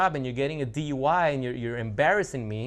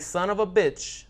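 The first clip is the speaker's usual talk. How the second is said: mock furious, higher and louder; hammed-up betrayed frog; outraged frog; 4 semitones higher, 5 dB louder than usual. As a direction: yell it while going under. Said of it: "the frog's like".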